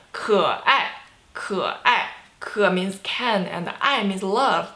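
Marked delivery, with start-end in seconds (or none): 0.1-2.1 可爱 with low 可, then falling 爱; third then fourth tone. Shown as a demonstration. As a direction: dip on 可, drop sharply on 爱. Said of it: "Third tone and fourth tone".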